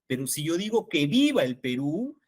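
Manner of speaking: "viva" stressed in "que viva el Perú", "que" left weak. Shown as a demonstration. Teacher contrasting examples for colleagues, stress on "viva". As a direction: hit "viva", not "que". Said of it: "el qué no tiene mayor relevancia".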